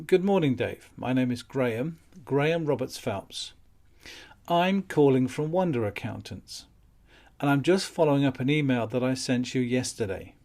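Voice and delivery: soft, calm, matter of fact; polite and confident; calm polite caller. Shown as a demonstration. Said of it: "It's very polite, it's very matter of fact, it's very calm".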